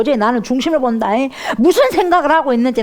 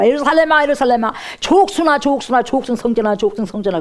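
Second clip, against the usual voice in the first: lamenting cry; 3 semitones higher than usual. Retold or imitated. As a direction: wail the names in sorrow, then sink. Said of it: "탄식하시면서".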